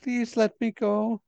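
begging to be released; frightened pleading. Acted. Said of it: "She is very afraid of you".

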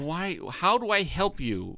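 exasperated offer of help; mock exasperation. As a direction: plead slowly, at your wits' end. Acting out exasperation at crying contestant.

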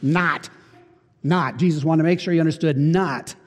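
"Not" said alone, short and firm; emphatic not. Shown as a demonstration. Preacher stressing the Greek "Not", emphatic. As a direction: drop "Not" like a verdict. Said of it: "It's a very emphatic phrase".

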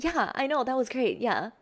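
people-pleaser agreeing too eagerly. Shown as a demonstration. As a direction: gush along to please them. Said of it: "you can just".

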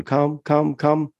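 high-pitched practice recall, lightly repeated; dog-training recall tone. Shown as a demonstration. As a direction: chirp the cue as a dog trainer would. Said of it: "they give it that tone".

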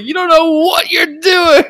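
high, loud hammed-up shout; mock yell. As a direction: overact the raid cop yelling. Imagined raid, laughing.

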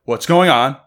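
increasingly high mock panic; imitated bewilderment. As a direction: play her growing confusion, pitch creeping up. Retells fiancee backing up, confused.

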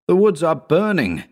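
calling out to drown out fear; shout. A narrator's reading. Narrator shouting at Howard over the fire. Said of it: "I shouted".

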